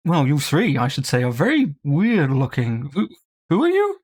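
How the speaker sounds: a pompous sword introducing himself; hint of a bougie aristocrat. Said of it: "I was gonna go with pretty bougie".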